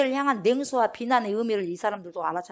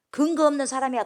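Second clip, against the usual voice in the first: loud, raised, scornful verdict; scornful dismissal; 6 semitones higher, 8 dB louder than usual. Acted. Pharisees rejecting the healed man as baseless, scornful dismissal. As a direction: write him off with force.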